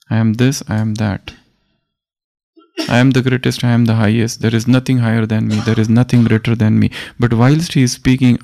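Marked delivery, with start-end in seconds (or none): 0.1-6.9 proud declaration. Retold or imitated. Sanjay reports Krishna to the blind king, proud proclamation. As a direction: declaim it as the supreme one, lightly voiced. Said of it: "Krishna is talking like this".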